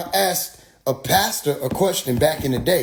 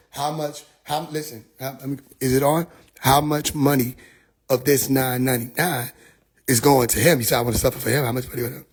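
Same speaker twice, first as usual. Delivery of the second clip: lower, restrained insistence; low, dogged questioning; 4 semitones lower than usual. Retold or imitated. Questioner pressing the preacher about money, low and dogged. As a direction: calmly hold on to the question.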